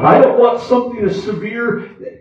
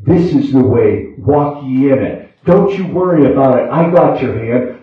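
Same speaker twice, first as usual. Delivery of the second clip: low-pitched, steady reassurance; reassuring small voice; 7 semitones lower than usual. Acted. Preacher voicing God's guidance amid trials, low and reassuring. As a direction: speak low, as God gently guiding. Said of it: "whispering voice. And what's it saying?".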